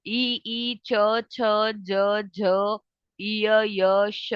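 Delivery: ई च छ ज झ य श said one by one at the palate; palatal sounds demo. Shown as a demonstration. Teacher demonstrating palatal letters, careful sounding out. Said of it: "pronounce करो इसे".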